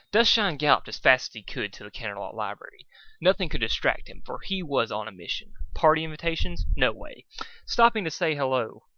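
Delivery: reading a fanfic aloud with light drama; a lightly dramatic storyteller reading; story narration. A narrator's reading. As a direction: tell it like a storybook.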